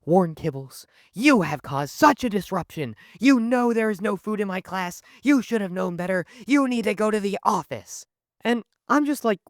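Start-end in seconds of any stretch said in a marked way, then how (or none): 0.0-8.1 high-pitched scolding teacher impression; angry teacher. Teacher sending student to the office, mock scolding. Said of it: "and Miss Turner goes".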